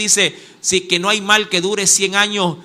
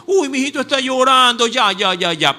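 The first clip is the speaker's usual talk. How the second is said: padre consolando; 4 semitones higher than usual. Retold or imitated.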